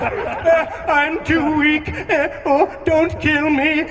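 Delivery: high, slow, sing-song whimper; hammed-up fake weakness to sway Anakin; mock feeble pleading. Palpatine faking weakness, acted.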